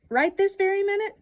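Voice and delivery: high, astonished rising question; amazed question. Acted. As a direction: playfully act amazed. Incredulous echo of child's wish.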